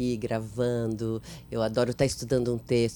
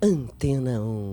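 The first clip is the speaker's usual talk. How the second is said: radio jingle voice; 3 semitones lower, slower than usual. Shown as a demonstration. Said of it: "aquelas vozes femininas que faziam as vinhetas".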